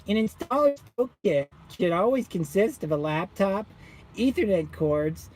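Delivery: lightly voiced condescending support guy; a hint of a smug tech rep; mock tech support guy. Imitating the SMA guy on the phone, lightly condescending. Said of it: "This is how his voice sounded".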